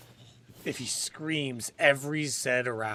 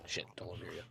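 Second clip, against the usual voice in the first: low hushed whisper; 6 semitones lower, 10 dB quieter, much faster than usual. Real, not acted. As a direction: hiss it under your breath. Ducking to hide from stag.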